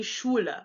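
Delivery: Schule starting with "sh"; German SCH sound. Shown as a demonstration. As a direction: model Schule as "SHOO-luh". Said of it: "pronounced like sh".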